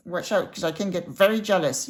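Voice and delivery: lightly voiced cheeky goat warning; a playful hint of goat jealousy; Lucky jealous goat. Goat Lucky warns Caroline, lightly voiced mock-jealous goat. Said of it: "Yes, Lucky can get very jealous".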